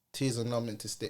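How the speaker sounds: lightly imitated Jamaican accent. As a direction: quote an elder with a touch of Jamaican. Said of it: "he said it in a Jamaican accent".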